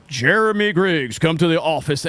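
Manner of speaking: measured, booming-style store announcement; voice of God. Retold or imitated. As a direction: imitate a commanding page over the intercom. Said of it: "it's a voice of God calling me".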